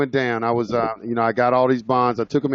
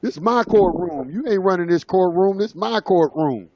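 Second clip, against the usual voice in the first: retold judge's rant; 5 semitones higher than usual. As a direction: lay down the law like a furious judge. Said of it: "started hollering at me".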